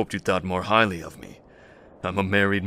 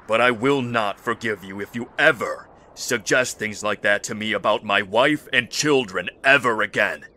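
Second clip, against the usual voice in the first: stern warning; 2 semitones higher, 4 dB louder than usual. Acted. Husband warns against insulting family.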